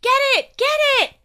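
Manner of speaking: high, urgent repeated shout. A narrator's reading. Will urging Peter to catch the nose, shouting. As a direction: yell the order, loud and high. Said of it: "shouted Will".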